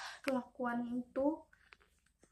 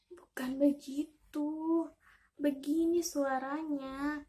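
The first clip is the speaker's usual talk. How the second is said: slow, drawn-out correction; lightly voiced mother patiently insisting; correcting mother frog; 2 semitones higher, 4 dB louder, slower than usual. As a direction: slowly show the child how it should sound. Mother frog correcting her child.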